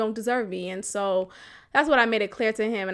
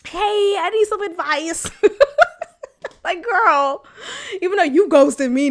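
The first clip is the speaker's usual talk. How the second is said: mock pleading; 7 semitones higher, 4 dB louder than usual. Mocks a text she refused to send.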